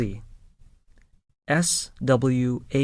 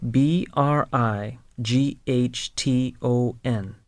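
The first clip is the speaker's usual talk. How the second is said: spelled out letter by letter. Shown as a demonstration. Teacher spelling the word for learners to follow. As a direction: spell each letter clearly. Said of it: "spelling the city".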